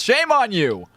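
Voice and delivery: high-pitched swoop, then falling; theatrical tongue-in-cheek reproach; mock scolding. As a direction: playfully shame the audience.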